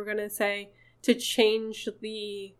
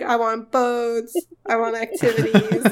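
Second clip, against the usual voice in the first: teasing imitation; 3 dB louder than usual. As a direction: playfully mimic someone demanding things. Mock quote teasing Charlie's many wishes.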